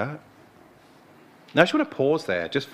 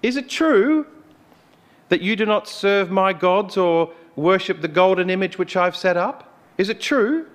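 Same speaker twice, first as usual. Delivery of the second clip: high, demanding royal interrogation; much higher king's voice pressing the question; King Nebuchadnezzar; 6 semitones higher, 4 dB louder than usual. Retold or imitated. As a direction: grill them like an indignant king. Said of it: "He goes".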